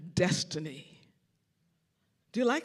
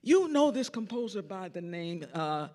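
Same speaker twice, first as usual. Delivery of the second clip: laughing reveal; 3 dB louder than usual. Retold or imitated.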